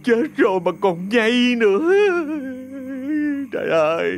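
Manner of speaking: frightened stammer. Acted. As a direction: beg her to stop scaring you, stumbling over words. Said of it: "sợ hãi run run ... lắp bắp". (lắp bắp sợ hãi, giọng cao)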